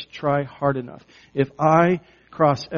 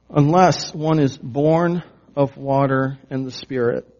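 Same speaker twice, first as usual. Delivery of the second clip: Unless one is born of water and the Spirit, each word laid out slowly; slow, deliberate reading; 4 dB louder than usual. Shown as a demonstration. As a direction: read it slowly so they catch every word. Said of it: "He says specifically here".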